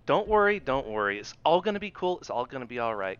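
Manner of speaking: polite threat. Shown as a demonstration. Listener trying out the young guy's threat, politely calm. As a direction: soothe him, then let a little malice leak. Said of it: "hard thing to say politely".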